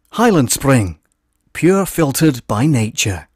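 mild Scottish voiceover read, slow on the tagline; lightly voiced Scottish ad read; Scottish accent. Shown as a demonstration. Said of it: "I'm gonna put my best Scottish voice on".

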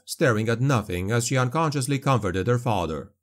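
plain reading voice

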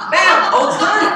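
very high, loud triumphant "Bam!"; punchline shout. Retold or imitated. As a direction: slam the punchline home.

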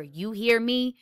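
first demand, a touch of anger; mildly furious. A narrator's reading. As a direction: press him once, firmly but understated. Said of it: "Jem was suddenly furious".

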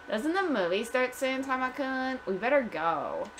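put-on sweetly whining Valley Girl. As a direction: nudge a date along as a Valley Girl. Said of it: "like Valley Girl".

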